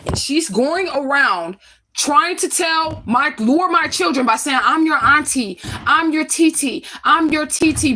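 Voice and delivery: sarcastic imitation of the friend; mocking the friend. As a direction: drag out the fake auntie claim scornfully. Mocking white friend claiming auntie.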